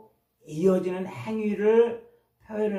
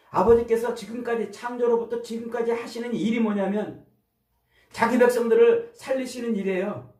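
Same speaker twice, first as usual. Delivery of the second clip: preaching fervor; 5 semitones higher than usual. Real, not acted. Pastor urging his congregation, raised and fervent. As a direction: drive the point home with fire.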